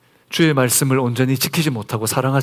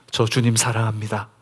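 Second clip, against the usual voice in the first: humble confession; 2 semitones lower than usual. Shown as a demonstration. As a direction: confess it gently, without boasting. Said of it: "부끄럽지만 고백하십시오". (조금 조용하고 겸손한 고백)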